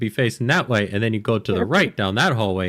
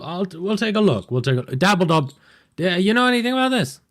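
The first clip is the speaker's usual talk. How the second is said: much higher character voice; 9 semitones higher than usual. Acted. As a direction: ask in a bright, raised voice. DM voicing character asking around.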